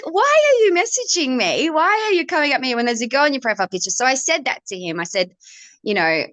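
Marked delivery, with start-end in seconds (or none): 0.0-3.9 retold annoyance, pitched up; annoyed. Singer retelling her reply to inbox guy, annoyed. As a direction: challenge him in a high, mock-indignant retelling. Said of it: "I just got so annoyed".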